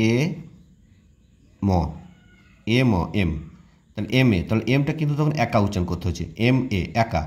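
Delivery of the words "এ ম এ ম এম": এম split into এ and ম, then joined; sound breakdown. Shown as a demonstration. Teacher breaks the letter into sounds for students. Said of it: "এম প্রথম উচ্চারণ করতে গিয়ে কী হচ্ছে".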